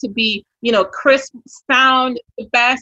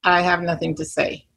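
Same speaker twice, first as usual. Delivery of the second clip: low-pitched, mildly dejected self-talk; deflated blank; 5 semitones lower, 4 dB quieter than usual. Retold or imitated. Agent frozen at the start of a live, mildly deflated. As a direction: lightly act out drawing a blank.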